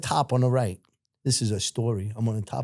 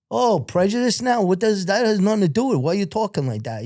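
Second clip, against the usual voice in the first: higher-pitched retold protest, settling as it goes; mock indignation; 8 semitones higher than usual. Prisoner answering a yelled threat, mock indignant protest. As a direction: object in a high, offended voice.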